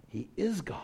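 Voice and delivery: breathy whisper of awe. Real, not acted. Preacher to congregation, a reverent whisper. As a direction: let it drop to a whisper. Awed aside about Christ.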